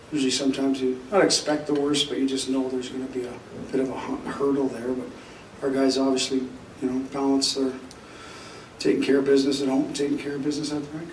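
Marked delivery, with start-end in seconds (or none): 5.6-11.1 losing his voice, strained and rough; hoarse, worn-out voice. Real, not acted. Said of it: "I'm losing my voice right now".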